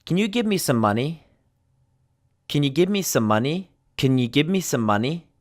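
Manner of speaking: CAN reduced to "kun" at the start of the question; teacher's model question with CAN as "kun"; unstressed can. Shown as a demonstration. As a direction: open on a quick, weak "kun" for CAN. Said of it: "Same thing here".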